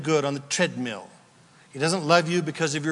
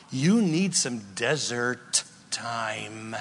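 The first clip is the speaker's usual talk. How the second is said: gentle slow counsel; 5 semitones lower, 4 dB quieter, slower than usual. Real, not acted. Tender address loved one.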